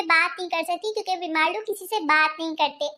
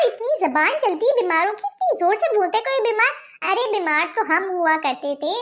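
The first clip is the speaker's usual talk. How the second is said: a lightly voiced old aunty muttering scornfully; grumbling aunty. Aunty mutters about today's sick, scornful old aunty. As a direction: scoff at the young ones' idea of illness.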